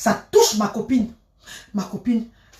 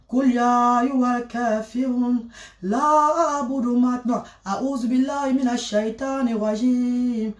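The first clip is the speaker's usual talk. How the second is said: Quran recitation; 4 dB quieter than usual. Acted. (récitation lente et posée des versets coraniques)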